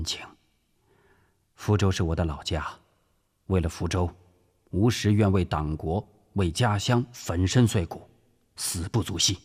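sincere. Acted. Subordinate pledging loyalty to his director, sincerely. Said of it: "吴石真诚地说".

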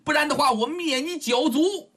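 high-pitched indignant threat; blustering yell. A narrator's reading. Captured girl threatening her abductor, high indignant bluster. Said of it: "琼艳姑娘直咋呼呀".

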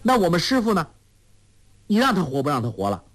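put-on high, then rushed girlish rebuke; Huang Rong challenging. A narrator's reading. 黄蓉质问周伯通不顾师父，高声急促. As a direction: corner him with a sharp question. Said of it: "黄蓉说".

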